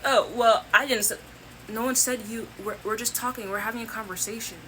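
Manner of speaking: mock a touchy relative who takes offence at everything; defensive narcissist mockery. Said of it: "And they're like".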